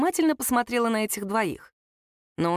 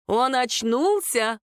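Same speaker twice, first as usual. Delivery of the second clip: mild shout; 4 semitones higher, much slower than usual. Acted. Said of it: "крикнул доктор".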